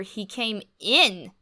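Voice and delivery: ordinary delivery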